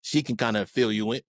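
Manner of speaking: talking through hiccups; words broken by a hiccup. Real, not acted. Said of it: "Excuse me, I got the hiccups".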